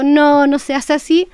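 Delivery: calm slow reassurance; gentle correction. Shown as a demonstration. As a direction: correct the child kindly. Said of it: "va a cambiar totalmente la concepción".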